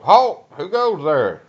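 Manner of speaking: sharp high shouted challenge; retold guard shout. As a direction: bark it like a sentry on guard.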